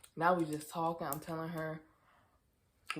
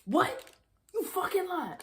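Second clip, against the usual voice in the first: higher, disbelieving cry; shocked disbelief; 12 semitones higher, 6 dB louder than usual. Retold or imitated. Friend shocked by the pregnancy news. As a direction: throw out the shock.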